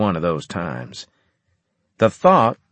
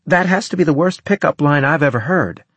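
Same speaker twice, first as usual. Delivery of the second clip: scoffing; 8 semitones higher, 4 dB louder than usual. Acted. Anne mocking pickup line.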